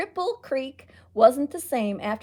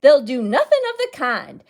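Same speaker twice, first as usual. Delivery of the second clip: with resolve; 3 semitones higher, 8 dB louder than usual. Acted. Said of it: "Aunt Chip said with resolve".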